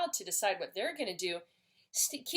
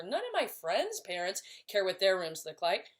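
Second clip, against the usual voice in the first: put-on teen daughter voice; 3 semitones lower than usual.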